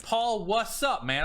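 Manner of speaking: slow stretched what's up; drawn-out casual greeting. Shown as a demonstration. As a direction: drag out the what's up like a buddy. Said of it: "I will text you the way I talk".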